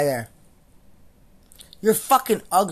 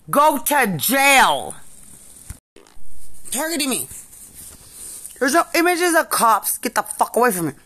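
screaming in rage; 6 semitones higher, 4 dB louder than usual. Real, not acted. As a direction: scream it at them, out of control. Real rant erupts again, screaming.

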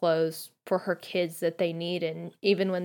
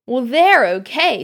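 louder, higher, slow and grudging; angrily; 6 semitones higher, 10 dB louder than usual. A narrator's reading. Ron looks at Harry's robes, grudging anger. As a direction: bite out the words, sulky. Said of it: "said Ron angrily".

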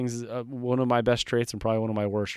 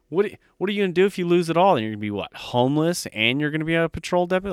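higher, fast, scoffing naysayer voice; mocking doubters; 5 semitones higher, faster than usual. Mimicking the people who doubted his risky move, higher and fast. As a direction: rattle it off like a sneering doubter. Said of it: "how many people fucking told me that".

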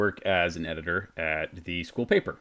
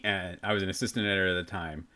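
ordinary talk, nothing marked

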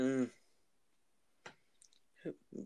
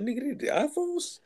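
high mock question; 11 semitones higher than usual. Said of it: "I'm like".

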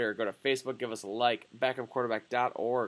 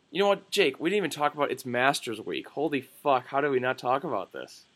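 sudden realization; 2 semitones higher than usual. Real, not acted. Suddenly remembers the Masters.

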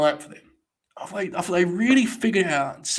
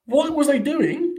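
high, slow, louder disbelieving cry; baffled outburst; 12 semitones higher, 6 dB louder, slower than usual. Real, not acted. Streamer reacting live to a botched match, disbelieving cry. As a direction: shout it up high in sheer disbelief.

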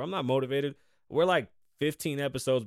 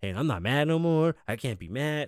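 lightly mocking a fake upbeat rich person; sing-song put-on positivity, a bit higher and louder; fake happy celebrity; 4 semitones higher, 4 dB louder than usual. Mocking rich people who act happy, in a light fake-cheerful voice. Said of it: "start going around talking about".

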